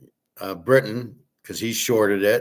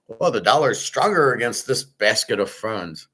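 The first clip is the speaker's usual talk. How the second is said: lightly mimicking the official spin on the dollar; mock official line; 2 semitones higher than usual. Host lightly mocking what officials tell the public, a touch of scorn. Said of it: "What, what are you, on drugs?".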